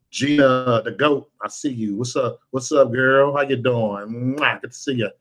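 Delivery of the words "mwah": kiss sound. Real, not acted. Blowing a kiss to a viewer.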